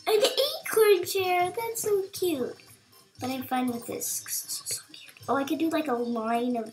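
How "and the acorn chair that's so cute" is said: sympathetic aww. Real, not acted. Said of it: "I think I went mad just now".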